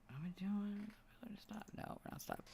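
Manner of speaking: hushed unvoiced whisper. Real, not acted. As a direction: whisper it under your breath. Whispered aside about recording.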